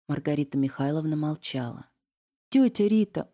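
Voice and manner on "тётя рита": an earnest plea, higher and louder; begging her aunt gently; pleading. A narrator's reading. Niece begging her missing aunt, pleading. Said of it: "умоляюще заговорила Настя".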